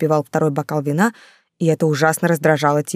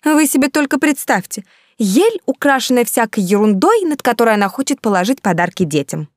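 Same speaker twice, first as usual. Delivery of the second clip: indignant gossip; 6 semitones higher, 3 dB louder than usual. A narrator's reading.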